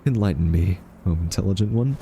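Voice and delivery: mock-reverent challenge; sarcastic deference. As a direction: goad them with exaggerated respect. Mockingly challenges the AI to explain.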